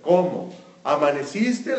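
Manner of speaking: curt, annoyed mock greeting from a husband; grumpy attitude. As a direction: toss the greeting off with a hint of irritation. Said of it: "he was like".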